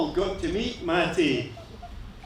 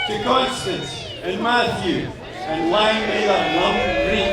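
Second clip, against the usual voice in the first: booming toast to the couple, "Lang may their lum reek" ringing out; toast shout. Real, not acted. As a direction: call it out to the whole room, glass raised.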